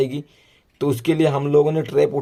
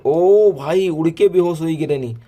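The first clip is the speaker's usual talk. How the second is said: higher, louder startled outburst; real surprise; 4 semitones higher, 5 dB louder than usual. Real, not acted. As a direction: react loudly as the enemy suddenly drops. Granny suddenly drops unconscious in game. (हैरानी भरी ऊँची आवाज़)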